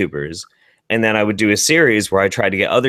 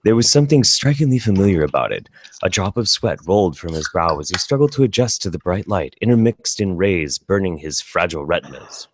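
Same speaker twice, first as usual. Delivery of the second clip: narrator voice; 3 semitones lower than usual. Acted. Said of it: "doing your best narrator voice".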